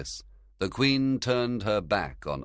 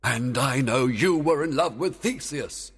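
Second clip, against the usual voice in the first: fairy king voice; 8 semitones higher, 6 dB louder than usual. Acted. Oberon retorting.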